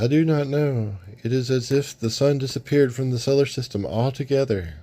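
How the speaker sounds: a hint of a worried sorceress. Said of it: "She says".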